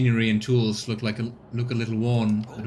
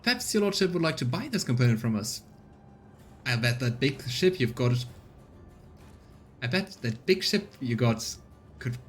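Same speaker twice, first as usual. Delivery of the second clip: colonist woman. Acted. Rita offering to sell.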